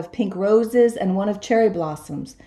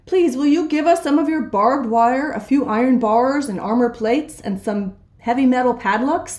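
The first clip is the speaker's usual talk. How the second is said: higher, pleading little wolves; polite little wolves; 4 semitones higher than usual. Acted. Little wolves politely asking the rhinoceros for supplies. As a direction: ask sweetly like small wolves.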